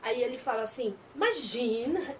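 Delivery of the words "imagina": cynical. Acted. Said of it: "mas é muito cínico esse homem".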